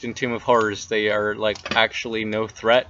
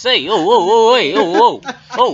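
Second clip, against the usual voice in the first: high, loud weasel with swooping pitch; weaselly voice; 8 semitones higher, 6 dB louder than usual. Acted. Game master introducing Noodle the weasel, weaselly voice. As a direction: yelp it out like a cocky weasel. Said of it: "It's a weaselly voice".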